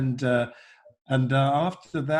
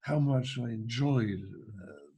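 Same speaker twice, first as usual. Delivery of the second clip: Prince Charles impression; 4 semitones lower, 4 dB quieter than usual. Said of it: "He said".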